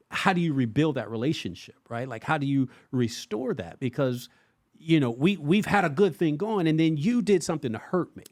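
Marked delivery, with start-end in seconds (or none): 4.8-8.2 hurt friend. Acted. Friend to the one who hurt them, wounded appeal. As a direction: lay out the grievance, higher pitched.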